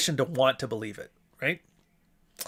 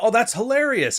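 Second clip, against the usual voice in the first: mock glee; 9 semitones higher, 5 dB louder than usual. Mocking people's glee.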